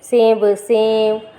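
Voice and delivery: सेब, सेब said very slowly, stretched syllable by syllable; slow drilled word. Shown as a demonstration. Teacher drilling children on सेब, very slow and clear. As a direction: draw out सेब, सेब for the class to copy. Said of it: "भ में की मात्रा भेड़".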